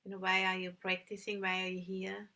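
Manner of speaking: calm, unhurried meditation guidance with long pauses; measured instructions in short, spaced phrases; guided meditation. Real, not acted. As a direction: guide listeners gently into stillness, leaving long silences.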